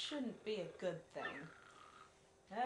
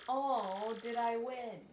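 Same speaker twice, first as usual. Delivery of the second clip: Peach impression; 3 dB louder, slower than usual. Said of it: "most talking you ever get from Peach".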